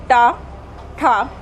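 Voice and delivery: टा, ठा said clearly with retroflex tongue; demo sounds. Shown as a demonstration. Teacher demonstrates टा, ठा to students, clear retroflex sounds. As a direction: sound out टा, ठा for the class. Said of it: "बोल के देखिए".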